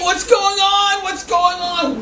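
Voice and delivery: high, loud, tearful exclamation; loud emotional cry; retold crying outburst. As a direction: cry it out, overwhelmed. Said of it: "And he's crying".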